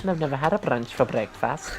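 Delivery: playful mock Welsh accent. Joining the friend's accent game, mock Welsh accent. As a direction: answer in a put-on Welsh accent. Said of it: "I like the Welsh accent too".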